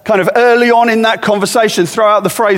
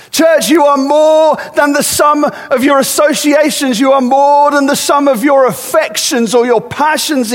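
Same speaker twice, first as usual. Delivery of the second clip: raised, higher preaching cry; impassioned exhortation; 4 semitones higher than usual. Acted. Pastor voicing Peter rallying the troubled church, raised and impassioned. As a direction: urge the church on, voice lifted and pressing.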